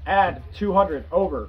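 calm radio call for fire. Shown as a demonstration.

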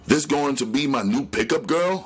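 put-on old auntie sizing up the new girl; sharp old woman. A narrator's reading. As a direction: snap the question out. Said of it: "asked sharply".

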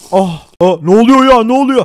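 sudden alarmed cry as the voice shifts; jolted, loud what is happening; startled voice change. Acted. Player panics as potion changes his voice, loudly. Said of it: "Sesim değişti arkadaşlar".

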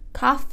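"cough" clipped short at the F; teacher showing how stopping at the F makes "cough"; wrong coffee. Shown as a demonstration. Teacher warning students that coffee becomes cough. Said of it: "se você falar cough, você tosse".

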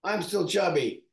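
lightly voiced self-disgust at his reflection; mock dismay. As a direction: groan at himself in the mirror. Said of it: "look in the mirror and be like".

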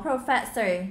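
"professor" stressed on FES; second-syllable stress. Shown as a demonstration. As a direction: hit the middle syllable of "professor". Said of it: "the second syllable". (nhấn âm hai trong "professor")

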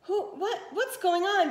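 high flustered outburst; shocked stepmother. Acted. Stepmother sputters in shock at the reveal. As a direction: splutter in disbelief.

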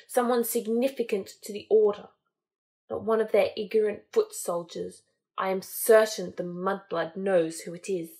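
lightly voiced menacing dark lord, brooding; a hint of Voldemort. Voldemort brooding aloud to his followers, lightly cold and menacing.

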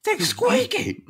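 extremely high mock-yelling voice; imitated loud phone talker. Shopper proving the squeak to her caller, mimicked high yell. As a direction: shriek it in a put-on high voice, stretching the words. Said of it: "she's real loudly in her phone going".

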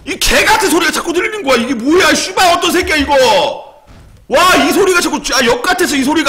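high, loud furious rant; angry yelling. Real, not acted. Streamer raging at an annoying sound on stream, loud angry yelling. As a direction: shout at the noise that keeps playing.

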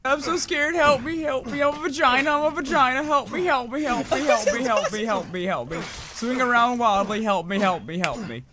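whiny mock-scared pleading; hammed-up frightened friend. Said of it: "I will be voicing Naruto".

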